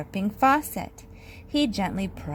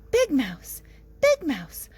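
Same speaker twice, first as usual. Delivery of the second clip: calling out; 5 semitones higher, 4 dB louder than usual. A narrator's reading. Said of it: "called Little Mouse".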